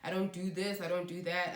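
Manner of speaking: lightly Americanized accent; American accent. Real, not acted. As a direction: slip briefly into an American accent. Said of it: "picked up an American accent".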